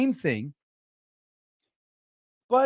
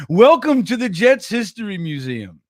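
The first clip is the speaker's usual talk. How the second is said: mock museum greeter; 6 dB louder than usual. Imagined museum greeter job.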